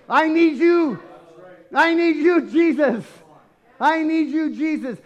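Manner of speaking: high, loud cry for help. Acted. Believer refusing to be silenced, loud high cry. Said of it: "shout all the louder".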